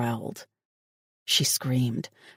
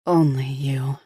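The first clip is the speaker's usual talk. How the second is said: whisper. A narrator's reading. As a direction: breathe it almost silently. Whispered line in love scene.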